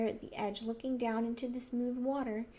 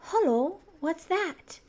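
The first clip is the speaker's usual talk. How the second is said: surprised; 6 semitones higher, 6 dB louder, slower than usual. Acted. Sudden discovery of guinea pig.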